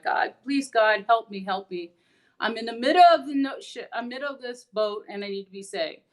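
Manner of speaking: begging God to rescue him, with a touch of panic; desperate prayer. Retold or imitated. Stranded man praying to God, mildly panicked. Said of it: "he prays to God".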